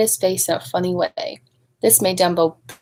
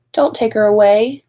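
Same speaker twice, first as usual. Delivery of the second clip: pleading cry; 5 dB louder than usual. Acted. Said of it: "cried Dumbo".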